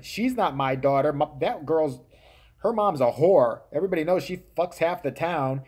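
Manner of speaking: a hammed-up talk show dad yelling accusations; mock angry dad. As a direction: bark it like a furious guest on Maury. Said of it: "dad going".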